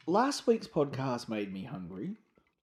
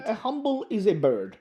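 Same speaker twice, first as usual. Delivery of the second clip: put-on Russian accent; 7 semitones higher than usual. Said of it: "talking in Russian accent".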